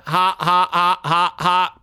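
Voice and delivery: flat spelled-out robot laugh. Acted. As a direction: say ha ha like a machine. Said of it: "Just a little robot humor".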